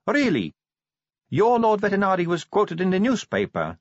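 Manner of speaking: high-pitched vampire recruit; Sally. A narrator's reading. Sally argues with Vimes.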